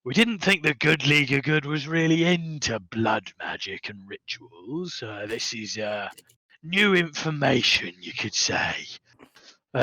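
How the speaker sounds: nervous about telling the boss; a touch of worry, dropping to a whisper; worried goblin. Acted. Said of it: "he gets a bit worried and goes like".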